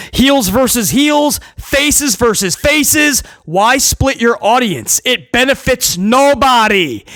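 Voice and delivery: slow, deliberate hammering of each phrase; drawn-out point-making; slow emphatic. Real, not acted. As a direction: spell it out slowly, fed up.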